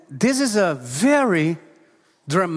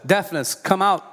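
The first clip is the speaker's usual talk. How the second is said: short command to deafness. Shown as a demonstration. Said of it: "I command you".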